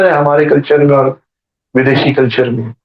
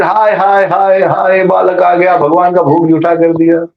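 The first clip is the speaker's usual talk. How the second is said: mildly wailing retold dismay, pitched up; mock lament; 2 semitones higher than usual. Brahmin lamenting the spoiled offering, mildly dismayed. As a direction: lament it lightly, a storyteller's imitation.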